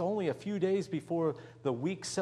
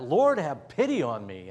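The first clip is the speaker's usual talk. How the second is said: mock cry out; 2 semitones lower, 5 dB louder than usual. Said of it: "could have cried out".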